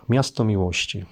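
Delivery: normal talking voice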